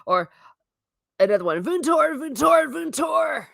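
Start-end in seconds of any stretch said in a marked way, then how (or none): 1.6-3.5 high-pitched calling out to teacher; mock screaming. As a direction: call it urgently, pitched high, like a pupil. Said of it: "You're screaming at the teacher".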